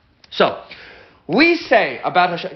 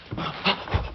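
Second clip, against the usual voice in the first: startled gasp; 9 dB quieter than usual. Retold or imitated. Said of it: "this is where people can kind of freak out".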